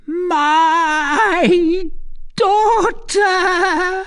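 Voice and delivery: very high, loud, drawn-out wail; cry from the depths. A narrator's reading. Recluse recognises her lost daughter, cry from the depths. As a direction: wail it with your whole being. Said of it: "cried in a voice which proceeded from the very depths".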